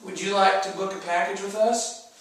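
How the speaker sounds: lightly voiced timid salesman; meek little sales pitch; beggar attitude. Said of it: "just beggar, uh, attitude".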